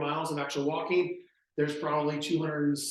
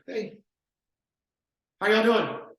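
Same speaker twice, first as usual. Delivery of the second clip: higher, upbeat salesman greeting; friendly pitch to buyers; 4 semitones higher, 3 dB louder than usual. Retold or imitated. Agent greeting buyers touring new homes, upbeat. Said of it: "He'd get up and go".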